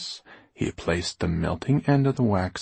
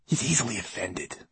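soft, confidential aside; confidential whisper; 2 semitones higher, 6 dB quieter than usual. A narrator's reading. Writer confides to girl about glass man, hushed. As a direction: confide it quietly, as a secret. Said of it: "he whispered confidentially to her".

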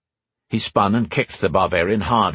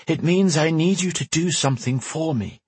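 an urgent voice from afar, kept gentle; mysterious woman voice; 8 semitones higher than usual. Acted. Telepathic woman speaking.

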